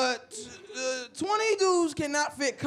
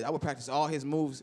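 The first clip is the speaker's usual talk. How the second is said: normal talking voice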